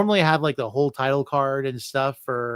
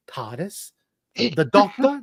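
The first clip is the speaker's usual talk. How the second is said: put-on higher, louder kid voice asking eagerly; imitating his kid; 5 semitones higher, 4 dB louder, slower than usual. Dad imitating his son pestering about the Doctor, higher mock kid voice. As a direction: mimic a small child's excited questions. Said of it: "he still goes".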